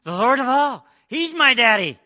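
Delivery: loud, high joyous declaration; triumphant proclaim. Real, not acted. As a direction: proclaim it to the congregation.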